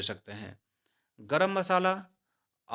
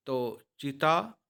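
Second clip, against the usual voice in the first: slow, careful; much slower than usual. Shown as a demonstration. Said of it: "आप चीताह नहीं पढ़ेंगे".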